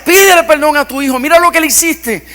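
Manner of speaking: mother pleading. Retold or imitated. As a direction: beg him to apologize to the boy. Mother pleading during a fight.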